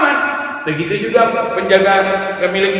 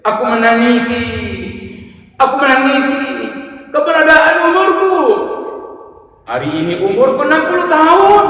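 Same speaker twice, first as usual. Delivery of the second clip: much higher and louder, a lamenting cry; old tailor lamenting his sixty years to the shopkeeper, high, loud and tearful; 7 semitones higher, 5 dB louder than usual. Acted. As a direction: cry out your grief to him. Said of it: "menangis teriak".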